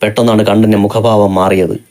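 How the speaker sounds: plain reading voice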